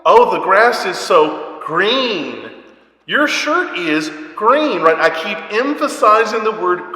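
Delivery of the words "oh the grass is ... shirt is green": put-on slow, sing-song words for a little boy; dad teaching his little boy colors, slow and sing-song; parent teaching a toddler. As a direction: point things out slowly to your small son. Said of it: "then I'm gonna say things like".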